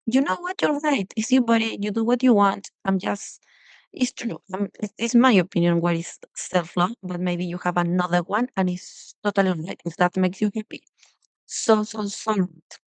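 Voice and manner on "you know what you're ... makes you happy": conceding. Retold or imitated. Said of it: "for me, it was like".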